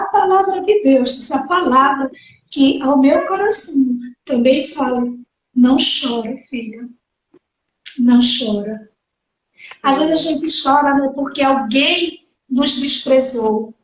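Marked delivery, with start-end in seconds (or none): 5.5-8.9 tender consolation. Acted. God to his weeping daughter, low tender hush. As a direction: comfort a crying daughter. God comforting her heart.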